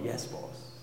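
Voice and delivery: soft, loving and a little playful; tongue-in-cheek. Shown as a demonstration. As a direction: say it fondly, with a smile in the voice. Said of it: "almost in a sort of tongue-in-cheek way".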